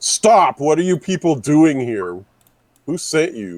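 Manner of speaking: loud, high-pitched yell. Trying to convince the strangers that they shouldn't be here, yelling. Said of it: "I'm going to yell at them like".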